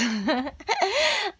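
a bright burst of real laughter, high then falling. Real, not acted. Laughing at her own mix-up with viewers, real laugh. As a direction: laugh at your own slip about the morning.

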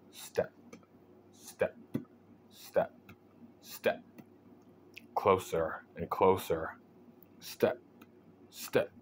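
soft, slow creeping steps; quiet. A narrator's reading. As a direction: hush each step as it nears. Haunt creeping closer slowly.

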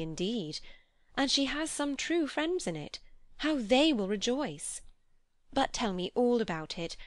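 lilting, animated sister's voice; delighted, affectionate Mary. Acted. Mary congratulating her brother on his choice, delighted and eager. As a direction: gush with pitch leaping on key words.

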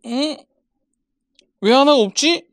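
loud, exasperated and high-pitched; frustrated shout. Real, not acted. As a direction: yell at the missing screw. Missing screw, frustrated outburst.

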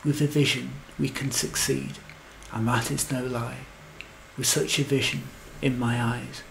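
measured, rhyming verse reading; poem recitation. A narrator's reading. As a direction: recite it line by line with pauses.

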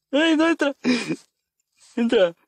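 scared squeals. Real, not acted. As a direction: squeal in real fright. Scared gamer in horror game.

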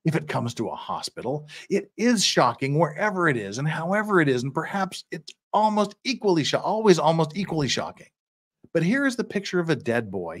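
measured oratorical reading; courtroom plea read aloud. Acted. Defender addressing the judge over a dead boy, oratorical reading.

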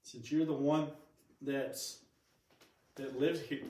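talking through hiccups. Real, not acted. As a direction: hiccup interrupting speech. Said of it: "I got the hiccups".

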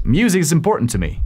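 quick, run-together English sentence; super fast. Shown as a demonstration. Teacher showing natural speed to learners, super fast. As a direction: rattle it off in one fast run. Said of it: "Así súper rápido".

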